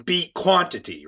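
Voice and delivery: ordinary delivery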